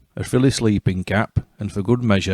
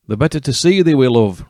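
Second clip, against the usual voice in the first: wolf as grandma; 4 semitones higher, 4 dB louder than usual. Acted. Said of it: "replied Wolf".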